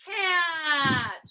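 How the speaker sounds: excited answer; cheery reveal; reveal shout. Shown as a demonstration. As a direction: announce it with joy.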